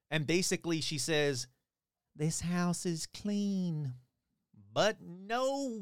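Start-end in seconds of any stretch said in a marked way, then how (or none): 2.1-3.9 very slow, drawn-out proclamation; imitated medium, stretching every word; mock medium pronouncement. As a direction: declare it like a hammed-up psychic. Retold medium's pronouncement on waking.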